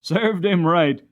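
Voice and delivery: slow, chuckling served him right; laughing. Acted. James laughing at the boy's fall, chuckling. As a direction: laugh it out with satisfaction. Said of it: "who laughed and said".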